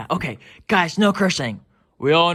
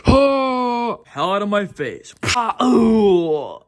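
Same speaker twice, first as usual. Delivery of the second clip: louder, higher yelping cry; pained yelp; 6 semitones higher, 5 dB louder, much slower than usual. Acted. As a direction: yelp in pain from a hit. Toy getting hit.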